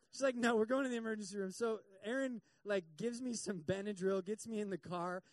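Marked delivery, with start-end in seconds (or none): 0.4-1.5 fast, louder, no argument; firm insistence. Retold or imitated. A wife firmly telling her husband they are going to hospital. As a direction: overrule him at once.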